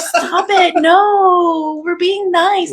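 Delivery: high mock scolding; high, scolding inner critic. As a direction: pitch it up to scold. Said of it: "It's like".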